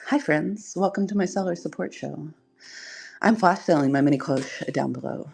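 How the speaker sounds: lightly put-on YouTube host voice. Shown as a demonstration. Streamer demonstrating a YouTube voice for viewers, lightly put on. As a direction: do a mild YouTube presenter greeting. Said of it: "I could use my YouTube voice".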